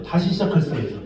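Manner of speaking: ordinary talk, nothing marked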